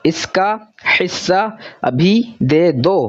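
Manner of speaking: each word read out slowly on its own, testing the sound. Shown as a demonstration. Teacher slowly trying the sentence out for pupils, word by word. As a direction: sound out इसका हिस्सा अभी दे दो slowly, word by word. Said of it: "तो ऊ वाला sound suit नहीं कर रहा".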